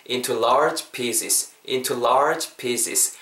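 slow "into large pieces", with "into" small and "large" stretched; model pronunciation. Shown as a demonstration. Teacher modelling the whole phrase, "into large pieces" slow and measured. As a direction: keep "into" light, lengthen "large", sound both S's in "pieces". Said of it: "이렇게 발음해 주시면은".

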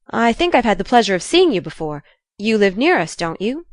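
mildly prim, quick opening; polite and easy. Acted. Jo trying to chat with the boy, politely. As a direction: make polite small talk with a questioning lift. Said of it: "trying to be polite and easy".

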